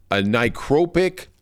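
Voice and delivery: "necropic" said haltingly, knowingly wrong; unsure mispronunciation. Real, not acted. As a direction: stumble slowly through "necropic", unsure of the word. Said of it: "I know I'm not saying the word right".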